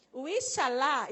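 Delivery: IXALÁ loud and drawn out; loud, theatrical fall on the end of Ixalá; emphatic intonation. Shown as a demonstration. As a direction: give Ixalá the full soap-opera intonation. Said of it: "tem que ter entonação de voz".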